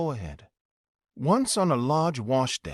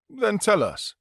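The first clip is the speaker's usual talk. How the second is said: eager shout, higher and louder; 7 semitones higher, 4 dB louder than usual. A narrator's reading. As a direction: demand it, raising the voice. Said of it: "they shouted".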